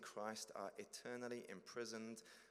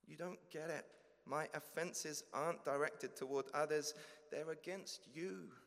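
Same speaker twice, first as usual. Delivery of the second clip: higher, louder pleading believer; anxious confession; 6 semitones higher, 5 dB louder than usual. Acted. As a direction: plead nervously, afraid of rejection.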